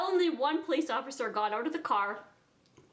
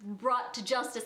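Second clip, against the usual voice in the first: angel on her shoulder. Retold or imitated. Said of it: "an angel and a devil on each shoulder".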